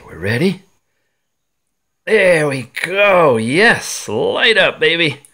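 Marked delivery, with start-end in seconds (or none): 2.0-5.2 excited. Real, not acted. Watch powers on, cheering.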